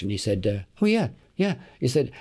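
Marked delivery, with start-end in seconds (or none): 0.8-1.5 imitated young German, pitched high; eager German-accented reply. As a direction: put on a German accent, higher than usual. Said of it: "I knew he was German by his accent".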